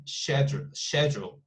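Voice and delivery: "Schedule" with a sh start, shedjool; British schedule. Shown as a demonstration. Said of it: "the British pronunciation is super different".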